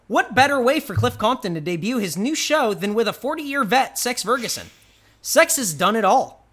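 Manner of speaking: punchy, emphatic promo read; announcer-style read. Acted. Reading a wrestling show's description to listeners, emphatic announcer read. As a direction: read it out like a show plug. Reads show description aloud.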